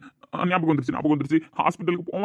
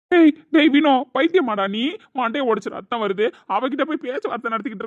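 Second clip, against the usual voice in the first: angry shout; 6 semitones higher, 4 dB louder than usual. Acted. Scolding friend over injury.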